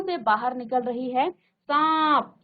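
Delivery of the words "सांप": सांप with the vowel through mouth and nose; nasalised vowel. Shown as a demonstration. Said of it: "वायु आपके मुख से और नाक से दोनों".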